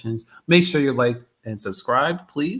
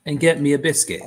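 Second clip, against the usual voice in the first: loud, higher, hammed-up half-London accent; mock London accent; 5 semitones higher, 6 dB louder than usual. Streamer joking he'll move to London, mock London accent. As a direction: play a cheeky Londoner wanting London, bruv. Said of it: "half London impersonation".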